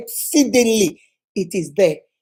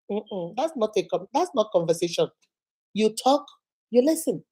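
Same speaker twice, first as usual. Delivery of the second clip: quiet correction; 7 dB quieter than usual. Real, not acted. Preacher correcting the quarrel.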